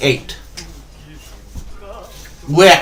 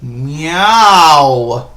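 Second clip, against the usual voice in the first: cat meow; 3 dB louder than usual. Shown as a demonstration. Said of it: "They're gonna make different animal voice noises".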